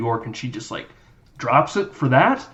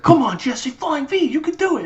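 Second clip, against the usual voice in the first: high, pleading teammate voice; mock Goldberg; 14 semitones higher than usual. Goldberg urging Jesse to try the move, high and pleading. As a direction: coax Jesse in a high squeaky tone. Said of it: "Goldberg's like".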